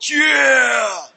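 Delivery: big retold cheer; triumphant yell. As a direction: holler it out in triumph. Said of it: "I went".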